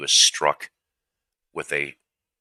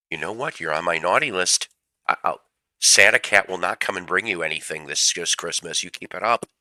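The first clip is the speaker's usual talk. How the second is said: higher, playful scolding like a parent; mock stern warning; 3 semitones higher, 3 dB louder than usual. Real, not acted. Warning his cat it's on Santa's naughty list, mock stern. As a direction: threaten the cat with no presents, half-joking.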